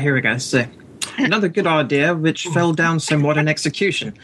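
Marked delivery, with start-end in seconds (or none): 1.2-4.1 reading aloud in an attempted Australian accent; a hint of put-on Australian accent. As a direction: imitate an Australian, lightly. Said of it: "read it in an Australian accent".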